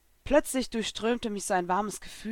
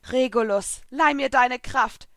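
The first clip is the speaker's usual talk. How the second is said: slow, raised summoning call; deliberate heroic incantation; solemn invocation; 4 semitones higher, 5 dB louder, slower than usual. A narrator's reading. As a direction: summon the power with weight, slowly. Heroine invokes a spirit's power.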